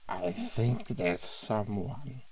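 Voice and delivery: put-on slow slurred drunk words; tipsy and unsteady; drunk slurring. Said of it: "in a slurred voice".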